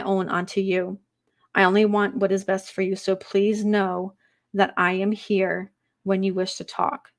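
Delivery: measured medium reading voice; channeled spirit message. Acted. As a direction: speak as the departed, gently.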